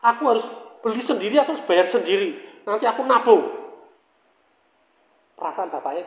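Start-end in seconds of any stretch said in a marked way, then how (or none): 0.0-3.6 protesting child in mock tears; mock crying child. Child refuses father's gift of a bicycle, mock-crying protest. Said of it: "Anaknya nangis".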